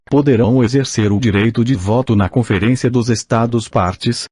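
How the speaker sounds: robotic text-to-speech reading; synthetic machine voice reading aloud. Real, not acted. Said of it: "com a utilização de voz sintetizada".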